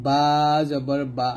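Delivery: বা from the wet inner part of both lips; letter articulation demo. Shown as a demonstration. Teacher showing students lip letters, বা closed on wet lips. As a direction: press moist lips together for a long বা, then a short one. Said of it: "বাটা দুই ঠোঁটের ভিজা অংশ".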